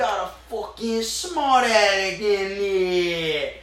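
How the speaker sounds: very slow, stretched, sneering drawl; mock taunt. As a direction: drag each word out to mock the smart guy.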